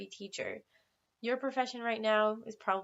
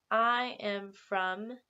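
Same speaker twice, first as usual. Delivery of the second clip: slow model answer; much slower than usual. Shown as a demonstration. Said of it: "you would respond".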